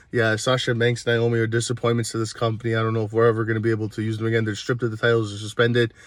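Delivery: lightly voiced company suit lecturing; mock corporate boss. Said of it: "They're like".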